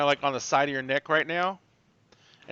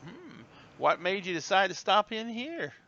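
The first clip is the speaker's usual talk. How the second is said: slow Southern drawl, pitched up; Southern hostess accent; 5 semitones higher than usual. Acted. Hostess questioning travelers, slow Southern accent. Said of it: "You throw on that accent".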